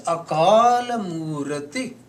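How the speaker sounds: "Murati" with a drawn-out, clearly sounded final I; "Akal Murati" slowly sounded out, ending in a clear "i". Shown as a demonstration. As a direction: stretch "Akal" long and end "Murati" on a full "ee". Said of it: "When the I sound is there".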